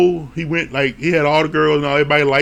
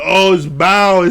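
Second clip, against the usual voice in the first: drawn-out "oh" of mild relief; relieved recognition, lightly acted; retold relief; 2 semitones higher, 4 dB louder, slower than usual. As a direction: imitate a groom slowly letting relief out. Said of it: "there's this huge relief".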